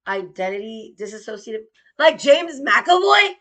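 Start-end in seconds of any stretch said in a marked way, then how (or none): 2.0-3.3 incredulous. Acted. Mocking reaction to diagnosis.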